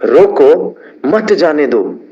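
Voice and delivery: slow, with मत जाने दो as one stressed order. Shown as a demonstration. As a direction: pause after रोको, then lean hard on मत. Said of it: "मत पे ज्यादा जोर लगाया". (मत पर ज़ोर)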